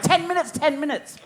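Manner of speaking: imitating teacher. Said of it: "the teacher was like".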